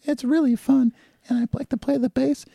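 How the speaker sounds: goofy cartoon wrestler voice; Hulk Hogan impression. Guest mocks Hulk Hogan to the host in a high put-on voice. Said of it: "talks like this".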